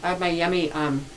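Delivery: chewing while talking; words round a bite of food; mouth full. Real, not acted. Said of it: "talk with your mouth full".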